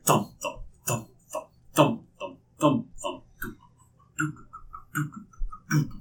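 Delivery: ominous drum beat. Acted. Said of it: "like a ominous drum beat".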